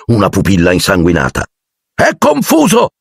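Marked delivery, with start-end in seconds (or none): 1.9-2.9 high, urgent shout to the class; excited cry. A narrator's reading. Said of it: "gridò Lupin". (grido acuto e concitato)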